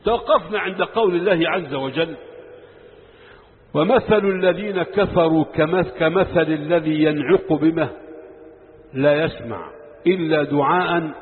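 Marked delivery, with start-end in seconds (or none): 3.7-11.1 slow, measured Quranic recitation; unhurried chanting of scripture. Acted. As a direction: recite the verse slowly with reverence. Quran verse recited slowly.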